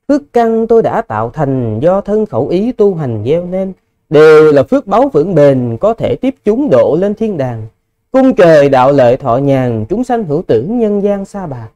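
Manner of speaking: lilting spoken poem reading; poem recitation. Shown as a demonstration. Monk showing listeners how a poem is read aloud, lilting recitation. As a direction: read a verse aloud with rises and falls. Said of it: "khi quý vị đọc một bài thơ".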